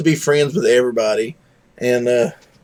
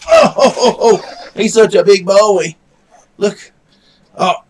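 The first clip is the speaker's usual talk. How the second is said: high, loud gushing over a pet; doting dog talk; 8 semitones higher, 7 dB louder than usual. Real, not acted. Fussing over his dog.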